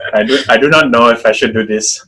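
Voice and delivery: tentative Hong Kong accent demonstration; lightly put-on Hong Kong accent. Shown as a demonstration. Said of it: "Do I dare do this?".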